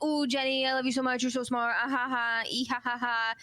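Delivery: gushing, with fake giggly ha-has; smitten Pred. Pred fawning over Jenny, mock lovestruck. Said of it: "Pred is like".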